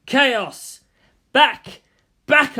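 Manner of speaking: loud, hammed-up war cry; mock battle cry. Shinji recoils from Misato's messy room, loud mock war cry. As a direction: bellow it like a crusader facing chaos.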